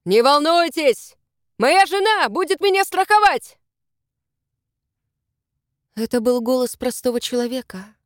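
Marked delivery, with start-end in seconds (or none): 0.0-3.6 reassuring call. Acted. Rescuer reassures her from above.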